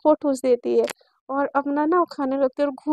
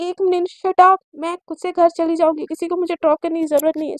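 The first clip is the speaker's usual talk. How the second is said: louder, firm interruption; mild stern outburst; 2 semitones higher, 5 dB louder than usual. Acted. Teacher silences two squabbling students, mildly stern. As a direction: cut them off with a touch of anger.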